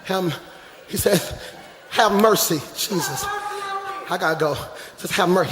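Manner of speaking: soft, low, intimate; hushed preaching. Acted. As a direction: drop the voice right down. Softens to quiet preaching.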